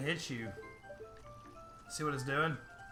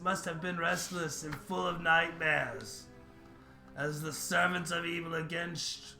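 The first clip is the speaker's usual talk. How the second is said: solemn tree voice; 4 dB louder than usual. Acted. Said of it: "why are you speaking in Old English".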